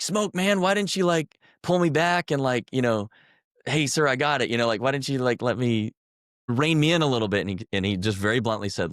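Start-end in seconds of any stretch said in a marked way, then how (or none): 0.0-7.4 frustrated pleading. Retold or imitated. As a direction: retell yourself begging your sergeant, voice way up. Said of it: "And I was like".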